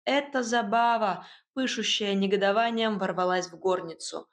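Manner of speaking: usual speaking voice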